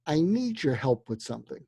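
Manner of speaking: calm voice. Shown as a demonstration. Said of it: "But you have to say it in a calm voice".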